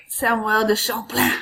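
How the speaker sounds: put-on Samuel de Champlain said in a light French accent; a playful French accent on the name. Teacher to class, showing off a mild French accent. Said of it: "There's my French accent for you".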